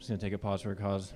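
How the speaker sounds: slightly winded, catching his breath. Real, not acted. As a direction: talk a little breathless between tunes. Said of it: "I'm running out of breath up here".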